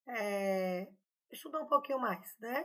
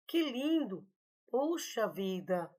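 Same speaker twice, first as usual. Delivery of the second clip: exclaimed surprise; slower than usual. Shown as a demonstration. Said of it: "manifesta emoção, surpresa".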